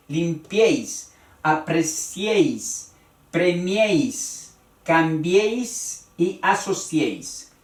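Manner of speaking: limpiéis, apreciéis, premiéis, cambiéis, asociéis, each stressed on -éis. Shown as a demonstration. Teacher lists subjunctive examples, limpiéis to asociéis, stressing each E. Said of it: "La E es la fuerte".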